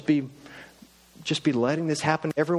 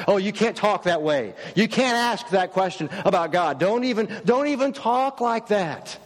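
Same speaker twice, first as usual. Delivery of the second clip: higher, stern rebuke on How dare you; scolding church folk; 4 semitones higher than usual. Retold or imitated. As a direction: scold the questioner like a shocked churchgoer. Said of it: "they get shut down really fast".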